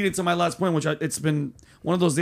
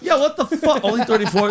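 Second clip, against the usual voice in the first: amused disbelief; 5 semitones higher, 4 dB louder than usual. Real, not acted. Reacting to thirty-four viewers.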